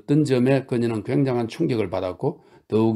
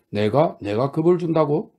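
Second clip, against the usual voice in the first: high, startled cry of disbelief; exclaiming; 5 semitones higher, 3 dB louder than usual. Acted. Mitya crying out to Grushenka in disbelief, a high exclamation. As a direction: fling the question out, arms raised. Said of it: "미차가 소리쳤다".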